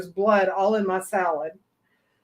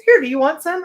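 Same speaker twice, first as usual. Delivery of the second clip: quoted boss guy; 7 semitones higher, 6 dB louder, faster than usual. Retold or imitated. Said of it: "sticks it in my face".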